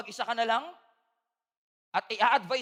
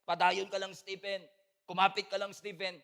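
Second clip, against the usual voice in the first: self-encouragement; 3 semitones lower than usual. Retold or imitated. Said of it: "ang hirap sabihin sa sariling".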